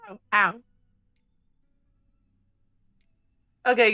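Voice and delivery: pained, wincing from a headache; quiet, hurting after laughing; head cramp. Real, not acted. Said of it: "I'm getting a headache from it".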